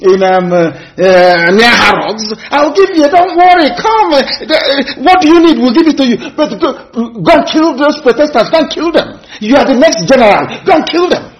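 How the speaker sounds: high, wheedling mock bribe; hammed-up high coaxing voice; mocking coaxing colonizer. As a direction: dangle the offer, lure them sweetly. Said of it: "They want to come and tell you".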